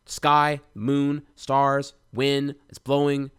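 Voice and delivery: name each thing out loud to anchor yourself; loud self-soothing roll call of sky and stars. Retold or imitated. Calming himself outside at night.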